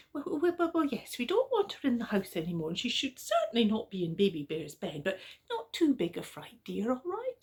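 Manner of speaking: hurried, fussing and soothing; Mummy Bear. Acted. Mummy Bear fussing to Daddy Bear, lightly voiced. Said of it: "And Mummy Bear said".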